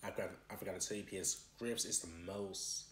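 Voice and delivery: talking while chewing; biting food mid-sentence; mouth full. Real, not acted. Seen 4: holds food at 0.1, at mouth biting from 1.3.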